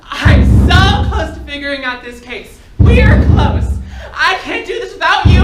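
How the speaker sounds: slow, high, laughing begging; a frantic half-laugh, clinging on; desperate laughing plea. Acted. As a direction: laugh through the panic as you plead. Begging the caller not to hang up.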